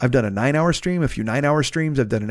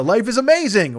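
higher-pitched playful mock scream; mild mock yell; 6 semitones higher than usual. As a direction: toss off a half-hearted yell. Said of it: "whatever he screamed".

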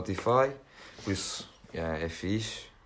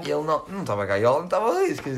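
rising panic over the missing bird; alarmed; 7 semitones higher, 5 dB louder than usual. Retold or imitated. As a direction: voice jumps high and fast in alarm.

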